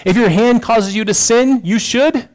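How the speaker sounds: hammed-up preacher Jesus voice; light impression of Jesus laying down hyperbole; imitating Jesus. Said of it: "He talks like this".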